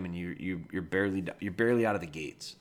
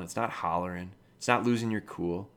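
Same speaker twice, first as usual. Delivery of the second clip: ordinary talk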